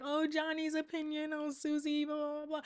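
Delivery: a hint of a gossip; mock gossip. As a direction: lightly mimic petty chatter. Mocking gossip about others' opinions.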